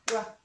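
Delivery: "rocket" split as rock, pause, et; two syllables. Shown as a demonstration. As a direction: sound out "rocket" in two separate beats. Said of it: "sound out rocket with the two syllables".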